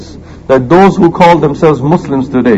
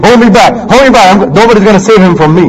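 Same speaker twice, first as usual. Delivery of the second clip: hold me back; 4 semitones higher, faster than usual. Retold or imitated. Cowardly fighter to the crowd, mock bravado. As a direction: fake tough guy begging to be held. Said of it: "That's why he's saying".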